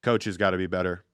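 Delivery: low, quiet, emotionless monotone; Bill Belichick impression. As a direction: drop the voice and drone like a bored coach. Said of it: "Bill Belichick answers with".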